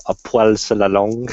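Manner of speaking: the idiom spoken with a French accent. Real, not acted. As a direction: slip into French pronunciation. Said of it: "so much nicer when you say it like that".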